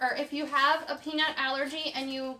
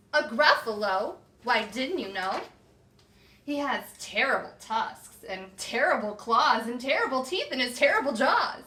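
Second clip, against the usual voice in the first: spooky mouse; 6 dB louder than usual. Acted. Mouse spooking the fox with monster talk, louder. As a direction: build the monster up to scare.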